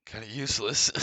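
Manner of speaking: high, loud exasperated cry of "useless"; loud, high, fed-up exclamation; exasperated outburst. Real, not acted. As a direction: blurt it out, fed up.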